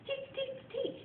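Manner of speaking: soft, high quiet call; teacher's quiet call for a calm room. Shown as a demonstration. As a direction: keep it hushed but bright. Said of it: "If we're trying to be quiet".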